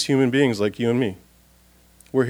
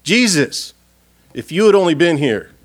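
accusing; 3 semitones higher than usual. Retold or imitated. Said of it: "The accusation".

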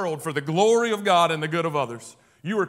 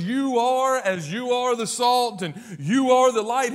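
each "are" pressed firmly in "You are the salt and you are the light"; emphatic delivery; 3 semitones higher, 5 dB louder than usual. Shown as a demonstration. Preacher stressing the verse to his congregation, emphatic. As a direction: lean on "are" to drive it home. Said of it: "he is emphatic".

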